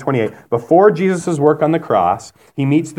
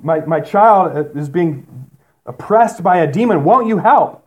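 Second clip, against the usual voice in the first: higher, mildly urgent plea; crying out; 4 semitones higher, slower than usual. Acted. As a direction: act out a mother begging for help. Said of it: "So she's crying out".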